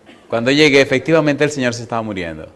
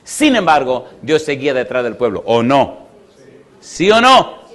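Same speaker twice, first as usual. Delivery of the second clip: emphatic preacher calling on the congregation; preaching; 2 semitones higher, 4 dB louder, slower than usual. Real, not acted. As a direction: press the crowd for an answer, punching key words.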